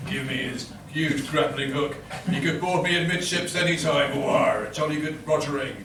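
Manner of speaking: lightly gruff pirate. Acted. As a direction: slip back into a low pirate. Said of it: "a tadlet too piratical still".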